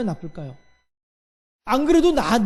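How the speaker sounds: usual speaking voice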